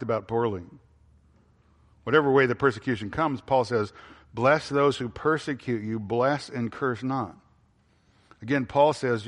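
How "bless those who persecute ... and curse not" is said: each word laid down slowly and deliberately; slow, weighty quote. Shown as a demonstration. Preacher quoting Paul to his congregation, slow and weighty. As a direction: let the command sink in, word by word.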